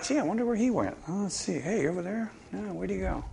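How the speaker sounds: high, bumbling searcher, peering about; mock puzzled God. Preacher mocks God searching for Adam, high and bumbling. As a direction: play God as clueless, high voice. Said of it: "It's not like".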